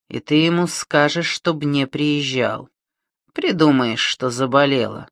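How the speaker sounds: медленный угрожающий голос бандита; чеканить угрозу; медленная угроза. Acted. (угрожающе и медленно)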